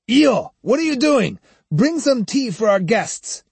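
high call across the room. A narrator's reading. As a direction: call out to the shed. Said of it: "Sahe shouted toward the hot water shed".

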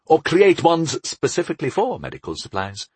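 lightly self-satisfied; smug. Acted. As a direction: offer it with a touch of smugness. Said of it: "he added smugly".

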